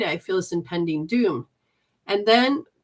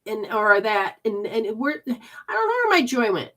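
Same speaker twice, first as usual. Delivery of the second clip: whiny lament; 6 semitones higher, 5 dB louder than usual. Retold or imitated. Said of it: "Because you're like".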